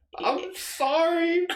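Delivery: mock tearful drunken blubbering, very high pitch. Retelling showing up drunk at her house and apologizing: retelling drunken crying. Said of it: "I'm like crying because I'm so drunk".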